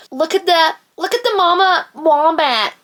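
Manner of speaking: mock American tourist, high and gushing; hammed-up American accent. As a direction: gush like an American filming wildlife. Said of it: "my amazing American accent".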